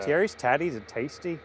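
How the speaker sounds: a light mock Irish accent, barely put on. Host tries a light Irish accent for the chat viewers. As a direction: toss it off in a half-hearted Irish lilt. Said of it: "say it in an Irish accent".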